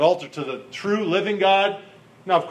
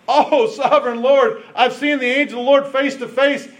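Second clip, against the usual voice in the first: mild exclamation; 3 semitones higher than usual. Acted. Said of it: "he exclaimed".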